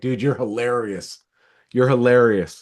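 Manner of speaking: play-acted amused talking through laughter. Acting out a customer answering a salesman's funny message: acting out laughing while talking. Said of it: "I would answer and be laughing like".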